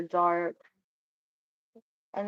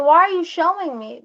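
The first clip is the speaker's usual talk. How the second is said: baffled outburst; 7 semitones higher, 8 dB louder than usual. Retold or imitated.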